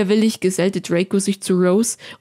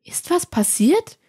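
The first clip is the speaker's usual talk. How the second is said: worried question; 10 semitones higher than usual. Acted. Hermine sees Malfoy, frowns.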